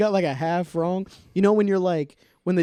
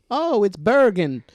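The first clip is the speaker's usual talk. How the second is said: mock recognition; 5 semitones higher, 5 dB louder, slower than usual. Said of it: "just be like".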